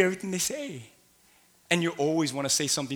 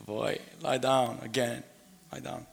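tired parent; 3 semitones lower, 5 dB quieter than usual. Retold or imitated. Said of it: "I'm gonna insert something".

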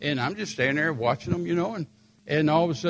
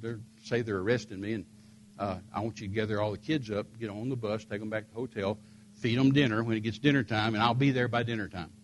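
calm to son; 4 semitones lower, 3 dB quieter than usual. Retold or imitated. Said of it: "and said".

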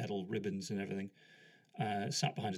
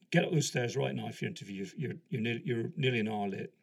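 impatient order; 5 dB louder than usual. Retold or imitated. Sergeant orders him upstairs.

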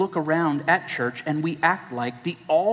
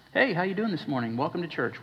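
mock church greeter; 2 semitones higher, 3 dB quieter, faster than usual. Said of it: "keep shiny plastic Christian on our faces".

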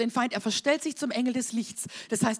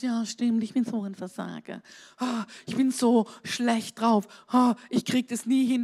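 acted dejected agreement. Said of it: "Und du sagst".

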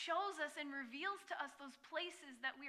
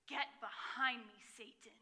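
dramatic rebuke. Retold or imitated. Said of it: "in a very dramatic way".

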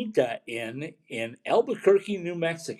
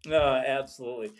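echoey room. Real, not acted. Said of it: "you're a little bit echoey".

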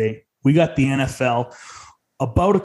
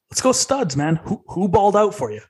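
excited; 6 semitones higher than usual. Real, not acted. Host hypes up the segment.

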